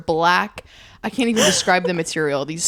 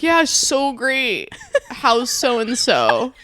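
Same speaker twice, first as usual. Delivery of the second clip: fake friendly; 4 semitones higher, much slower than usual. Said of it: "And then I'm like".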